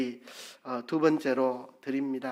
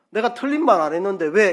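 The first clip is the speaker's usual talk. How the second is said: higher, louder indignant retort; defensive snap; 6 semitones higher, 7 dB louder, faster than usual. Shown as a demonstration. Preacher showing bad tone, an indignant defensive retort. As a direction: bristle back as if wrongly accused. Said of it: "이렇게 말하면 안 됩니다".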